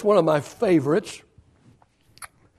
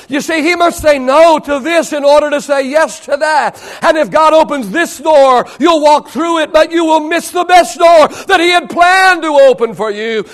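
raised, higher preacher's voice; impassioned preaching; 10 semitones higher, 9 dB louder than usual. Real, not acted. Preacher on God's better door, impassioned. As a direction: drive it home to the congregation.

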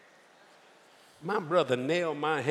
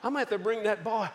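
mock panic; 4 semitones higher, faster than usual. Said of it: "Mama's freaking out".

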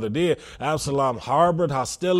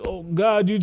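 high, loud imitation of whining excuses; hammed-up pleading, no real tears; mock tearful plea; 6 semitones higher, 5 dB louder than usual. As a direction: protest to God as a put-upon sinner. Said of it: "you can cry and say".

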